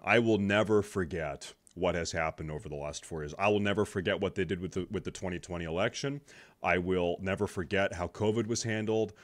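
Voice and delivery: ordinary talk, nothing marked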